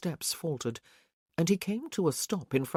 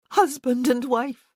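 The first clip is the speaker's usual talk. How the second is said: higher, louder, fervent bride's voice; Isabel's vow; 9 semitones higher, 8 dB louder than usual. A narrator's reading. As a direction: seal the vow with feeling.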